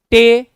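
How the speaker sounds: टे loud and drawn out on the ए sound; long vowel sound. Shown as a demonstration. Teacher isolating a syllable's sound for students, loud long vowel. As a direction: hold the ए in टे, loud and high. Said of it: "ए का sound है".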